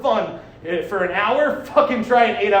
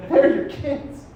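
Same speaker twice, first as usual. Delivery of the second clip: retold incredulous echo; pointed disbelief; 3 semitones higher, much slower than usual. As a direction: imitate someone plainly not buying it. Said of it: "That's a specific tone of voice".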